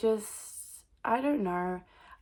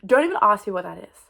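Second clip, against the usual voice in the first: a giggled "don't even ask me"; laughing; 9 dB louder than usual. Real, not acted. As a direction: laugh it off, embarrassed. Laughing, embarrassed.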